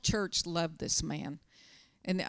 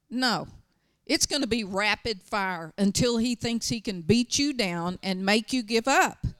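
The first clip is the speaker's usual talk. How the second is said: emphatic; 2 semitones higher, 6 dB louder than usual. Retold or imitated. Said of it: "I told a lady the other day".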